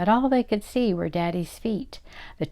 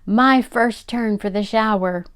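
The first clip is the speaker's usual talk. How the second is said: loud, triumphant crowing; gloating shout; 4 semitones higher, 5 dB louder than usual. Acted. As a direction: crow it like a childish winner. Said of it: "shouting at the top of his voice".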